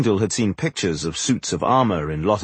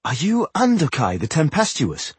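higher, tentative question; 6 semitones higher than usual. A narrator's reading. Dwarf ventures to ask the woman who she is, tentative. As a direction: venture it as a cautious guess. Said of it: "he ventured at last".

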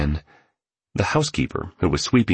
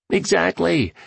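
high, emphatic burst of approval; eager agreement; 13 semitones higher than usual. A narrator's reading. Billionaire eagerly agrees, fist bumps.

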